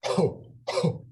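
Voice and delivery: short unvoiced laughing breaths from the diaphragm; breathy laughter exercise. Shown as a demonstration. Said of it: "you can just hear it".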